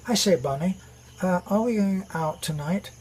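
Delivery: lightly put-on posh British gent; mock-posh British old-film voice; posh British accent. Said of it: "a rather posh British accent".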